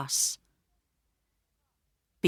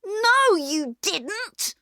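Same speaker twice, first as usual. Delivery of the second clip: angry; 13 semitones higher, much slower than usual. A narrator's reading. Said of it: "said Peter angrily".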